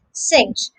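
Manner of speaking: crisp "sinkt" for Cinct; clear K sound. Shown as a demonstration. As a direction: sound the K before the final T in Cinct. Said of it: "With the K sound".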